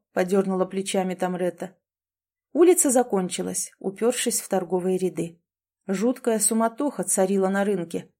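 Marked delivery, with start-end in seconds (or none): none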